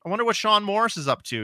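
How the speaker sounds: acted-out musing. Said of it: "kinda thought process in my mind".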